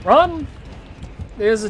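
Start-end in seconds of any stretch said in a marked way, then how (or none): 0.1-0.5 panicked yell. Real, not acted. Killer coming.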